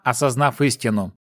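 ordinary delivery, nothing marked

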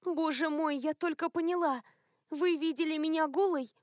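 moaning from under the blanket in embarrassment; mortified moan. A narrator's reading. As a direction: let her squirm with shame. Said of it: "накрылась одеялом с головой и простонала".

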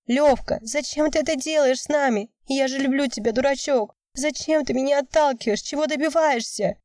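high pleading cry, near tears; shouting through tears. A narrator's reading. Girlfriend pleading with her boyfriend as he walks away, high tearful cry. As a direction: beg him high and raw. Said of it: "кричала Вика сквозь слёзы".

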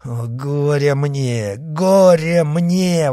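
slow, drawn-out wail of woe; lamenting. Acted. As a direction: mourn it, stretching every word. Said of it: "восклицал Д'Артаньян".

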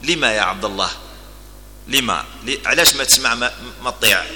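quiet, even question without heat; calm. Acted. Umar calmly questions the man objecting to him, softly. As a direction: gently ask why, unruffled. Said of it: "فقال عمر بهدوء".

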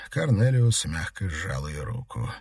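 ordinary delivery, nothing marked

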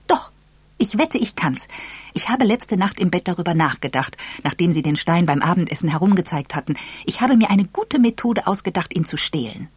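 lightly voiced cocky girl; eager girl. Voices eager girl making bet.

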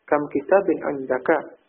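"Kam kitabin indaka" told as an exclamation, not asked. Shown as a demonstration. Teacher repeating the telling form, level tune on "Kam kitabin indaka". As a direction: keep "indaka" free of a question lift.

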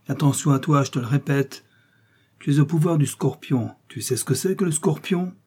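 menacing captain, rising pitch; threatening captain. Acted. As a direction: threaten the prisoner with the scorpion. Bork threatens torture.

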